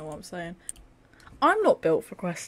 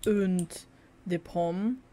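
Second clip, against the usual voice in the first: mock French accent. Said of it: "something you'd find in a French".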